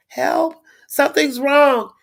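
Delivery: high, slow cry for help, barely any breath; mock panicked call. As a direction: gasp out a weak plea for help, slowed down. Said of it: "I could barely scream".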